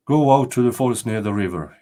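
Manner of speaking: the king's firm order to his servants; royal command. Acted. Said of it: "he commanded".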